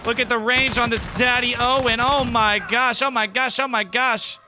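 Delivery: excited gushing over a favorite gun; really excited. Real, not acted. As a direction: marvel at it, voice lifted. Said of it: "really excited".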